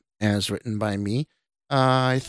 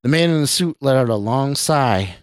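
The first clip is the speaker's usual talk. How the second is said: measured audiobook narrator; even-paced storytelling; story narration. A narrator's reading. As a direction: read it as a suspense tale.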